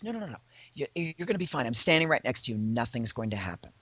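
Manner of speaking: calm a nervous friend, softly; mock reassurance. Manager reassures her.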